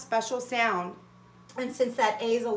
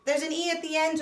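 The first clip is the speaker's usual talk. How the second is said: higher, louder oh of noticing; hammed-up aha for kids; mock discovery; 5 semitones higher, 5 dB louder than usual. Shown as a demonstration. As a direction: act surprised to spot the E. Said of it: "the first thing I wanna tell myself is".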